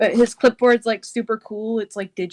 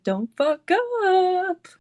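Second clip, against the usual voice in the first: high, drawn-out sing-song taunt; sing-songy; 9 semitones higher, much slower than usual. Acted. Calling to them as they come in the door, sing-songy. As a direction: stretch each word into a lilting high sing-song. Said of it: "kinda, like, sing-songy".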